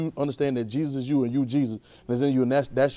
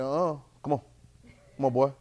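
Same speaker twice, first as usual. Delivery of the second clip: scolding parent; 3 semitones lower than usual. Retold or imitated. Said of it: "man said".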